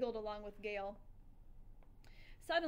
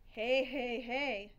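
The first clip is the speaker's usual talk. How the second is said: louder, bursting hey hey hey; excited calls; 7 dB louder, much slower than usual. A narrator's reading. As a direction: burst out with delight. Excited hamster narrator calling out.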